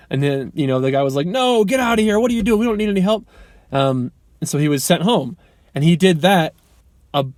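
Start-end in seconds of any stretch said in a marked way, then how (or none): 1.3-3.3 higher mock dismissive boss voice; gruff boss brushing him off. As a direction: imitate a boss shooing a kid away. Disc jockey boss turning him away.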